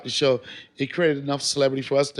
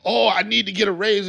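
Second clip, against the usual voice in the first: higher-pitched whiny money gripe; mock complaining; 6 semitones higher than usual. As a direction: act out a complaint about pay. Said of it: "Nobody was complaining about money".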